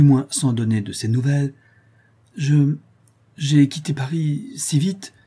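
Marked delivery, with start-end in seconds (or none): 2.4-5.1 slow, embarrassed whispered stammer; confused whisper. Acted. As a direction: stumble out the excuse in a hush. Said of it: "de plus en plus confuse". (chuchotement confus et gêné)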